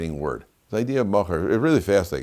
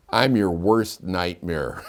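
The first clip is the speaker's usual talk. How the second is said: mock menace; 3 semitones lower, 3 dB quieter, much slower than usual. Huge passenger's punchline to seatmate.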